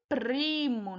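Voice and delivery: trilled R in "primo"; tongue-trilled R. Shown as a demonstration. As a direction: draw out "primo" with a fluttering tongue-tip R. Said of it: "A linguinha treme".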